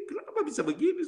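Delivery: high, tearful questioning; crying. Retold or imitated. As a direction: act out asking why through tears. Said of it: "Sambil nangis gini".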